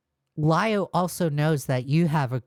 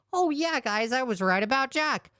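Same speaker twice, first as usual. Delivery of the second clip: higher-pitched mock boast; mocking imitation; 6 semitones higher than usual. Commentator throwing Jar's boast back at them, mockingly. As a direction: imitate a self-satisfied brag in a high voice. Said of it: "you're gonna sit here and be like".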